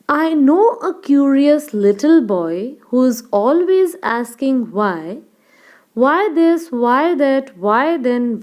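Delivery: slow, measured recital with lilting stresses; poem recitation. Shown as a demonstration. Teacher reciting a poem for students to follow, slow measured recitation. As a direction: recite line by line, slowly and clearly. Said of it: "Once again we will recite".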